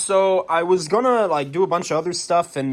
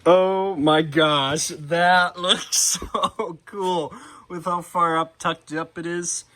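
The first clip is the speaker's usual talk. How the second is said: amazed; slower than usual. Real, not acted. Amazed at the lifted truck.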